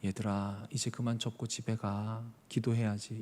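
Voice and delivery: soft, slow, overly gentle plea; mock gentle Jesus. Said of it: "자비하시고 착한 분이라면". (상인들에게 부드럽고 느리게 타이르는 말투)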